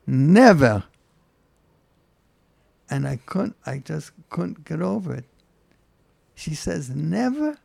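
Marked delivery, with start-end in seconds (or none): 0.1-0.8 a firm, falling "Never." said with finality; emphatic refusal. Retold or imitated. Older woman from Monsey refusing to move, emphatic. 6.9-7.6 "Never?" pitched much higher and rising, half-voiced in disbelief; emphatic never. Rabbi echoing the woman's refusal in disbelief, emphatic. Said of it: "in such an emphatic way".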